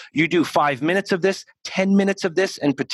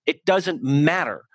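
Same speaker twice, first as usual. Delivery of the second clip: ordinary delivery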